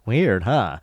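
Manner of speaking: lightly taunting, drawn-out question; imitated sly taunt. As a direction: tease with a knowing little jab. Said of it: "like he's sort of taunting".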